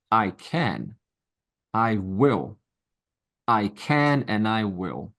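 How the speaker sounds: slow, steady affirmation; mantra. Shown as a demonstration. Teacher modeling the mantra for students, slow and sure. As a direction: say it like a vow to yourself. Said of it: "That's my favorite mantra".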